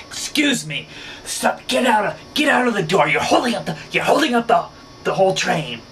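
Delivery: subway passenger yelling at a woman holding the door, high and loud; imitated high-pitched yelling. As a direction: yell it way up high like the angry rider. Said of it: "his voice was, like, high-pitched, and he was just yelling".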